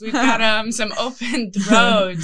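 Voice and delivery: slow hammed-up sales pitch; mock salesman. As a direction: pitch it like a carnival barker.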